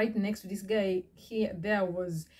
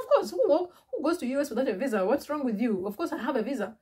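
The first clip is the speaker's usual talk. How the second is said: indignant outburst; 5 semitones higher than usual. Retold or imitated. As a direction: snap back at the silly question. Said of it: "I was so mad".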